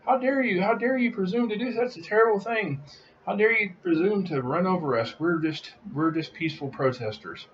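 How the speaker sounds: high mocking squeal of a whining protester; mocking protester whine. Mocking protesters who block cars, in a high whiny squeal. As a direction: mimic them shrieking like helpless victims. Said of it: "they'll scream".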